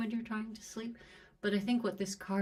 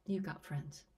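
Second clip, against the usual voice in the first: teary voice; 4 dB quieter than usual. Real, not acted. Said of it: "I'm getting teary".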